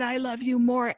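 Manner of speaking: high, grating mousy whine; mock her grinding voice. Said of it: "mousy grinding voice".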